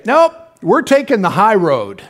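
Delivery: slow, decided quote of a spouse; firm refusal. Retold or imitated. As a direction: say it as a settled decision, slowly. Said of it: "we'll just say".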